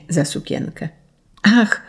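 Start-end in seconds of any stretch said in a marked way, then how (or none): 1.4-1.8 sudden cry. A narrator's reading. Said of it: "krzyknęła nagle Juzia".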